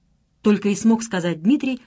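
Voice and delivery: ordinary delivery, nothing marked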